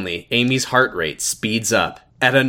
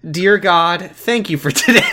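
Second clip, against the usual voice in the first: laughing prayer; 6 semitones higher, 4 dB louder than usual. Acted. Reading prayer aloud, laughing.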